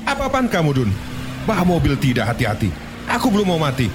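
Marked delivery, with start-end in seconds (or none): 0.1-0.9 shocked cry, very high; jolted awake yelling; startled outburst. Acted. Jolted awake by sudden braking.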